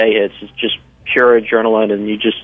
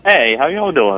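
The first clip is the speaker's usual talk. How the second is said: Southern accent; 4 semitones higher, slower than usual. Real, not acted. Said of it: "So you can hear that Southern accent".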